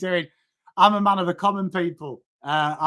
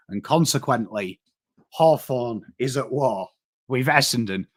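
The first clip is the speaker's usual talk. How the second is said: low, measured mock-posh speech; posh English voice; 5 semitones lower than usual. Streamer parodies Chamberlain's war speech for a footy trade, posh voice. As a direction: put on a solemn posh wartime-address voice. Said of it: "let me get my posh voice on".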